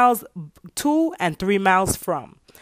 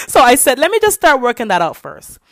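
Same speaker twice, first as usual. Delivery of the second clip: laughing; 5 semitones higher, 7 dB louder than usual. Real, not acted. Laughing after butt joke.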